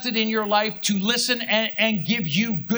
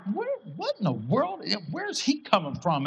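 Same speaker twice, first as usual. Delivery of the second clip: indignant; 2 semitones higher, 4 dB quieter than usual. Retold or imitated. Pastor retelling his indignant reaction to a friend, mock outrage. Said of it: "like, indignant".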